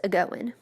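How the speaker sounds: "a-goin'" with an uh sound joined on the front; slow "a-goin'", prefix attached and G dropped. Shown as a demonstration. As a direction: say "a-goin'" as one word, ending in n. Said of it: "A sound is placed to the beginning".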